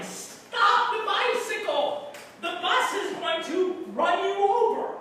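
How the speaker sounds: high, loud urgent warning yell. Acted. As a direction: yell to stop a child in danger. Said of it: "I am yelling at him".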